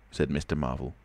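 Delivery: plain reading voice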